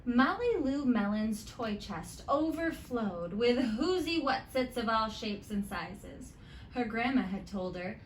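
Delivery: put-on lively read-aloud to children; story narration. A narrator's reading. Teacher reading a picture book to her students, lively storytime.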